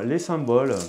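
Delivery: les symboles in a sing-song Midi accent, with the final e of symboles sounded; a playful southern French lilt on les symboles. Shown as a demonstration. Tarot reader to her Virgo viewers, a southern French accent. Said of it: "mon accent du Sud".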